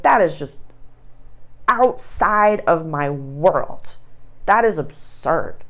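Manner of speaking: slow, drawn-out mock disbelief; mock disdain. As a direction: stretch it out as if it's absurd. Coffee drinker can't picture espresso.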